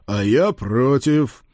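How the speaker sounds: drawn-out, mocking veto; emphatic refusal. Lord overrules the lovestruck page, emphatically. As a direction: stretch the refusal out slowly.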